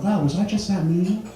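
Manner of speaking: amazed at himself. Retold or imitated. Wonders at his own outburst.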